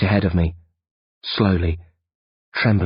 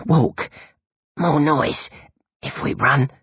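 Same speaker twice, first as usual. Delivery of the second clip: put-on weak boy; 7 semitones higher, slower than usual. Bill E voiced.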